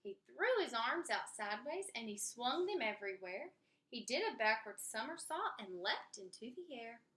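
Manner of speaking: lively picture-book read-aloud with character voices; story narration. Acted. Reading a rhyming story aloud to kids, lively narration. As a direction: read it to children, bouncy and rhymed.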